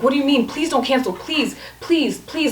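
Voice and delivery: mock a desperate texter begging; imitated begging. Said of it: "like, begging".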